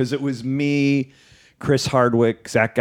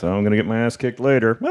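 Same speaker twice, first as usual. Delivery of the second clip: conspiratorial aside; 2 semitones lower than usual. Retold or imitated. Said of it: "an aside to the audience".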